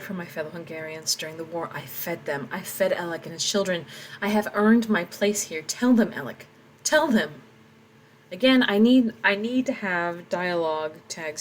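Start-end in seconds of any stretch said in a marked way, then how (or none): 4.2-6.5 louder, insistent; raised plea. Acted. Tomas demanding Alec speak up, raised and insistent. 6.8-7.3 louder, insistent; raised plea. Acted. Tomas demanding Alec speak up, raised and insistent.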